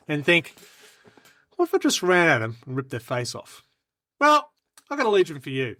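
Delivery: scripted pitch with rhetorical questions; infomercial-style army pitch; sales pitch speech. Acted. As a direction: set up the sell, holding back the shout. Performs timed recruitment speech.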